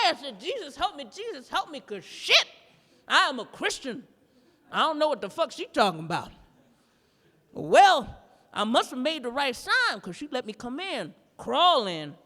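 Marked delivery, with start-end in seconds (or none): 0.4-6.3 a touch of panic, pleading to Jesus; panicky prayer. Retold or imitated. Man at the witch's door, praying in mock panic. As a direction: pray for help, half scared half joking. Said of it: "I start praying right away".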